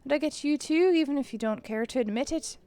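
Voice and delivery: lightly put-on Irish accent; a rough go at Irish. McMurphy confessing to Kara, slight Irish accent. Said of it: "maybe my Irish accent will get better".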